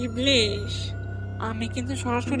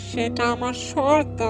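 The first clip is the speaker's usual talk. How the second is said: slow, drawn-out ominous delivery; ominous declaration; much slower than usual. Acted. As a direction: lay down terms slowly, menacingly. Devil sets his condition. (ধীর, ভয়ধরানো গলায়)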